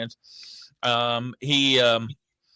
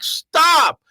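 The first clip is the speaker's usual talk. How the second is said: high, sharp retort; mock outrage at the phone rep; angry retort; 10 semitones higher, slower than usual. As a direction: snap back at the salesman. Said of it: "And I'm like".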